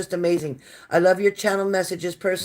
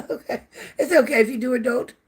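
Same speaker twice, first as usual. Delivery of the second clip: laughing; 6 semitones higher than usual. Real, not acted. Laughing off a viewer's jab.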